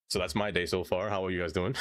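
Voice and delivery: slightly winded talk; short of breath while talking. Real, not acted. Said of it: "I don't know why I'm out of breath".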